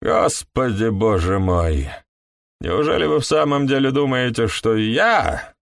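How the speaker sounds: talking around a cigar; words pushed past a cigar; cigar in mouth. Acted. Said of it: "не вынимая сигары изо рта".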